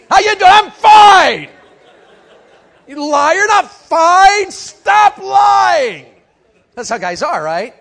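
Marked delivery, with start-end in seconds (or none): 0.1-6.1 much higher, louder, slow shouted scolding; mock accusing shout. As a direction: call out the liar. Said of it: "Gotta go back to point one".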